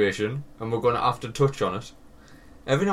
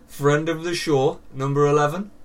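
bingo caller; 4 semitones higher, 3 dB louder than usual. Acted. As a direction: call the number like a bingo host. Bingo call, hammed up.

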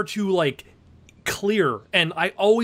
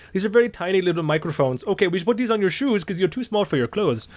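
lightly voiced German audio guy, a bit fast; a hint of a German accent, quick and chatty; mock German accent; 2 semitones higher, faster than usual. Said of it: "See, again, a German accent".

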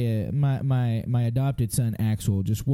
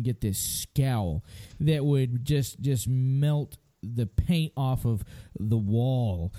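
slow, dramatic; much slower than usual. Real, not acted.

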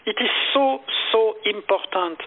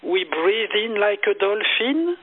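guided meditation. Retold or imitated. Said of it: "I say".

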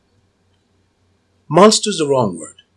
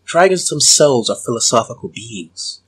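hypnotic voice. Acted. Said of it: "I'm gonna start using my hypnotic voice on him".

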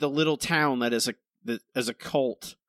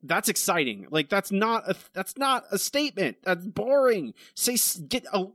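sarcastic mock reply; 8 semitones higher than usual.

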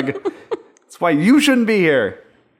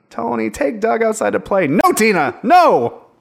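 mock pleading parent; 5 semitones higher than usual. Voicing parents' quarrel.

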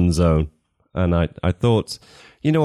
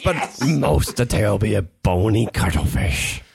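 put-on old sailor; slower than usual. Pirate voice reading.

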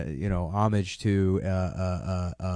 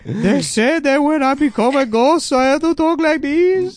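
high, slow cartoon Yoda voice; squeaky puppet sage, dragged out; 8 dB louder, slower than usual. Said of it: "why are you talking like that".

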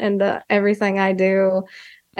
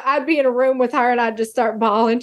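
ordinary talk, nothing marked

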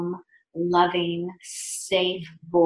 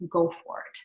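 whispered reply; 2 semitones lower, 6 dB quieter than usual. Retold or imitated. Retold reply while lying on table.

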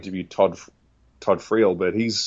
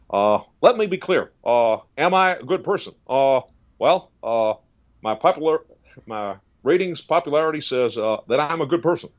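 hesitant halting politician with lots of uhs, higher; Obama impression; 5 semitones higher than usual. Impressionist voices Obama dodging the question, halting. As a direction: stall with measured pauses. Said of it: "with Barack Obama".

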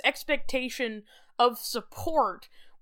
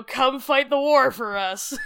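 slow, louder recruiter plea; mock recruiter; 5 dB louder, slower than usual. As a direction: call it out like a recruiter. Mock army recruiter calling.

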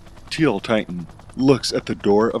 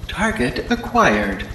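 robot voice; 6 semitones higher, slower than usual. Acted. Hunter drone speaks.

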